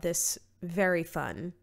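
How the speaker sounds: dry, sarcastic tone. Real, not acted. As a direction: say it with mock cheer. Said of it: "and I meant that sarcastically".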